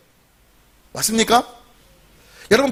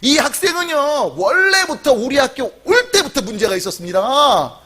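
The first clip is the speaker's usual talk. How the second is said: higher-pitched, mock-indignant teacher; angry schoolteacher; 4 semitones higher than usual. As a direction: act out a teacher shifting the blame. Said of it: "너무 화가 나서 이렇게 말했대요".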